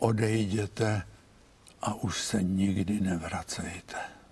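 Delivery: muffled, low, veiled, almost husky voice. Retelling what she told him and his wife: imitating an almost husky voice. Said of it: "takovým hlasem téměř zastřeným říká".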